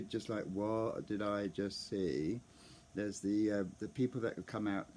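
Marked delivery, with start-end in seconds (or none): 0.4-2.4 slow, dazed mock zombie; stunned zombie. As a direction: stretch it out as if in shock. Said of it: "there's definitely zombie".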